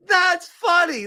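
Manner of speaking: slow, loud, laughing repeat; loud amused drawn-out that's funny. Real, not acted. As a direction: savor the joke out loud. Still laughing at comment.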